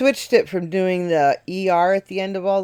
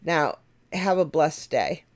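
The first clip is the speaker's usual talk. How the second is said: mock polite sign-off; slower than usual. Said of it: "I end it with".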